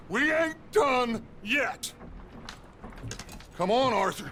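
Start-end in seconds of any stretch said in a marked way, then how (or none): 0.1-1.9 rallying cry. Acted. Rallying the gang after losses.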